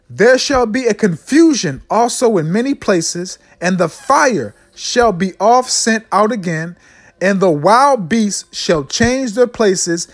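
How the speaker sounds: slow, measured Bible reading; scripture reading. Acted. Preacher reads scripture to his people, slow and declamatory. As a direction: read the verse out slowly and deliberately.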